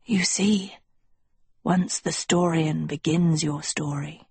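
hushed, measured schoolmaster; understated, whispery authority. Acted.

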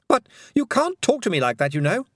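stern warning. A narrator's reading. Tiffany firmly warns him.

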